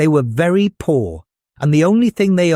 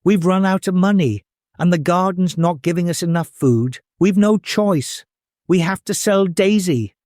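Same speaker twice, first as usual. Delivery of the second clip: higher, worried mother's plea; 5 semitones higher than usual. Acted. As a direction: plead with a heavy heart. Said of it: "her voice heavy with worry".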